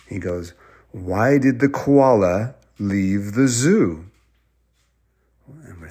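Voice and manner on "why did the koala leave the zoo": riddling troll. Acted. Troll poses second riddle.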